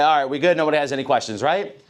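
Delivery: brisk tag question that shuts questions down; dismissive wrap-up check; closing off questions. Shown as a demonstration. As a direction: signal don't ask me. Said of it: "By the way I'm wording that and my tone".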